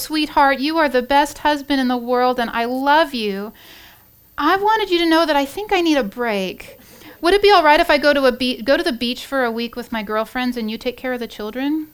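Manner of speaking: butter him up before asking the favour; sweet talk. Acted. Wife sweet-talking her husband for a beach week, coaxing. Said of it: "the wife starts with some sweet talk".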